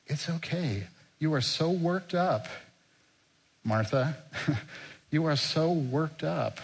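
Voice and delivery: lightly voiced, soothing Jesus speaking to Martha; a hint of a calm, comforting Jesus; gentle Jesus. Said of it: "I think he might talk kinda like this".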